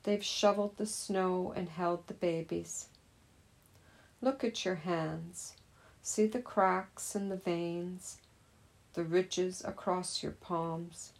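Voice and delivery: measured poem reading with pauses between lines. Acted. Teacher reading a poem about hands to meditators, measured recital. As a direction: read the poem out to meditators, line by line. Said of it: "as I read the poem".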